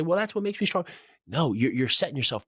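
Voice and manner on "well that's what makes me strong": a much higher, mocking voice for the proud excuse; mock proud listener. Host mocking a listener's proud excuse, in a much higher mocking voice. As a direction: send up the listener's proud excuse, pitched well up. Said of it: "And you say".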